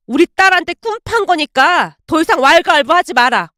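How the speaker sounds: mildly angry order; firm exclamation. Acted. Mother telling daughter-in-law the dream is sold, firm. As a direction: shut the argument down firmly. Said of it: "새언니에게 외쳤어요".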